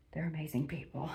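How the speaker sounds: holding back tears. Real, not acted. Thanking friends who welcomed her, near tears. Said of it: "told you I'm trying not to cry".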